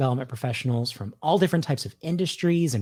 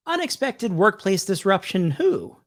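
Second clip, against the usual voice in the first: higher, puzzled question voice; joke listener asking; 6 semitones higher than usual. Pretend. Playing the listener answering back, higher and quizzical. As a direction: ask it like a confused listener. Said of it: "I'll just do both sides of the joke".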